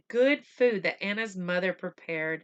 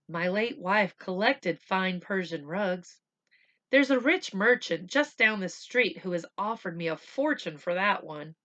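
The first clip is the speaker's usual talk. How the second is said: chirpy doctor; 4 dB louder than usual. Acted. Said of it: "the doctor chirped with a broad smile".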